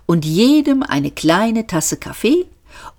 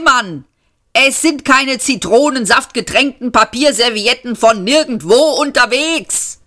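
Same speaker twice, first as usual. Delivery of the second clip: much higher, heated protest; exasperated rant; 7 semitones higher than usual. A narrator's reading. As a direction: lecture the stupid machine. Seyfort rants at the autopilot. (Seyfort schimpft aufgebracht mit dem Autopiloten)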